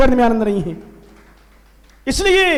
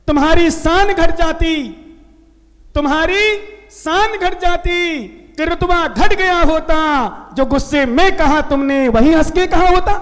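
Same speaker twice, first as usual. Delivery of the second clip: recited couplet; 3 dB louder than usual. Shown as a demonstration. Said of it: "मुझे दोहा याद है".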